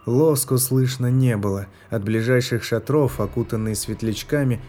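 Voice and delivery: usual speaking voice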